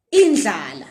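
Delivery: indlala said firmly, with a lateral dl; teaching pronunciation; careful Ndebele word. Shown as a demonstration. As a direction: repeat indlala clearly. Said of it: "word I have for you".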